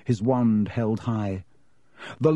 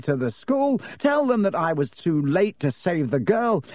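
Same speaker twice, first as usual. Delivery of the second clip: gloating villain; 3 semitones higher than usual. Acted. Villain Lockhart gloats over boys.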